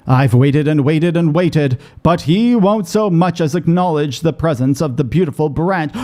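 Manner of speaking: lightly voiced wounded fairy royal; a hint of melodramatic fairy complaint; aggrieved fairy. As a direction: lightly put on a theatrical, hard-done-by fairy. Voices game character's dialogue.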